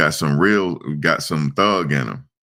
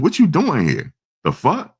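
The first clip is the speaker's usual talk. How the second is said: retold barking; 11 semitones higher than usual. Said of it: "barking at him".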